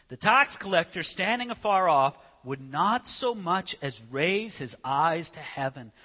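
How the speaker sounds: measured, slowing scripture read; solemn Bible reading. Acted. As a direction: read the verse with gravity. Reads scripture.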